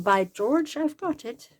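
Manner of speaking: playful mock-English exclamation, pitch swinging up; fake English accent. Crafter congratulating herself on an idea, playful fake English accent. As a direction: put on a hammy English accent. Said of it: "I use an English accent".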